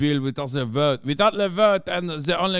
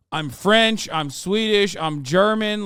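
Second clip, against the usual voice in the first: higher, louder mock boasting; mocking Ludwig; 6 semitones higher, 4 dB louder, slower than usual. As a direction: parody each proud claim, pitched up. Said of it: "He's like".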